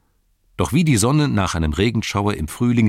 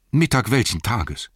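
puzzled question; 4 semitones higher than usual. Acted. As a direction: demand to know which day. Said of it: "versuchte nachzurechnen".

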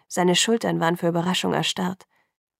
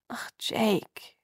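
weary groaning sigh; 5 dB quieter than usual. A narrator's reading. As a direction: groan it out, exasperated. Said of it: "stöhnte ich".

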